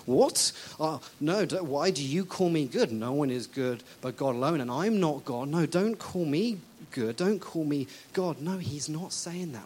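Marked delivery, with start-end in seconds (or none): 0.1-8.4 hammed-up flustered protest; mock-shocked, hurried denial. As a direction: blurt a startled objection, then keep protesting. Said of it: "acting all surprised and shocked and going".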